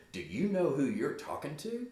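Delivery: indignant mom, pitch lifted; pulling a mom. Acted. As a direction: pull rank on your child, pitch up. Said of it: "she's pulling a mom here".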